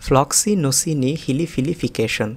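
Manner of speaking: ফ্লক্সিনোসিনি হিলিফিলিফিকেশন drawn out slowly, piece by piece; slow, broken up. Shown as a demonstration. Teacher breaking ফ্লক্সিনোসিনি হিলিফিলিফিকেশন down for learners. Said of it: "আবার দেখুন".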